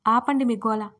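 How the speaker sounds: loud, fed-up snap at the squabbling; irritated. Acted. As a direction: tell them to stop, annoyed. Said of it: "Gagan విసుక్కున్నాడు". (విసుగ్గా, గట్టిగా)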